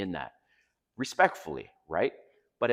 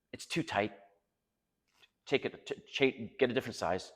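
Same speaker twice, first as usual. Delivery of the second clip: imitating a mildly snarky wife; understated snark, dismissing his choice; lightly mocked snarky put-down; retold snarky attitude. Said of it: "in this kind of snarky attitude".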